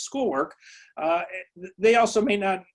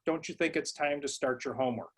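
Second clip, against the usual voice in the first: soft suggestion phrased as a question, falling at the end; request as a question; 7 dB quieter than usual. Shown as a demonstration. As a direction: ask it gently instead of telling. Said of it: "Any command issued as a question".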